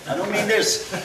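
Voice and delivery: normal talking voice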